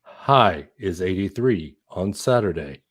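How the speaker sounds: low robotic forecast read; robot weather voice. Shown as a demonstration. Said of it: "Make a sound like the robot dude on the Weather Channel".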